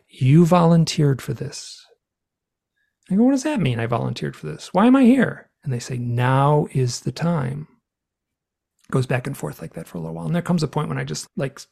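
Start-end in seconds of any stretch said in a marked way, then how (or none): 0.1-1.8 slow, lightly voiced alien collective; telepathic collective voice. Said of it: "this collective telepathic voice". 3.2-5.5 mildly indignant questioning, pitch leaping up; bewildered protest. Retold or imitated. Retold protest to the beings. 6.0-7.7 slow, lightly voiced alien collective; telepathic collective voice. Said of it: "this collective telepathic voice".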